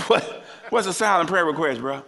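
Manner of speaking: laughing through the question; chuckling, can't believe the request; laughing disbelief. Real, not acted. Preacher laughing at a silent prayer request. Mocking a church member's request.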